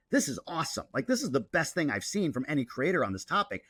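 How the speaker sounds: a touch of enthusiastic gushing; mildly excited. Acted. Creator reacting to another creator's great video, mildly excited. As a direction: let the key words lift with mild excitement. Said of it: "I'll get excited about".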